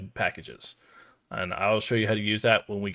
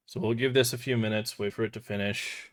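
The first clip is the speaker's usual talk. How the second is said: words between sips of a drink; drinking while talking; 4 dB quieter than usual. Real, not acted. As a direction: talk while drinking, mouth wet. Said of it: "I'm drinking something as I'm talking".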